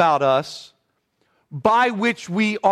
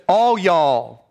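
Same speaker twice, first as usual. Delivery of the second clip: drawn-out Southern y'all; Southern drawl; 3 dB louder than usual. Shown as a demonstration. Pastor showing how his wife's region talks, Southern drawl. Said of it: "say it with that kind of drawl".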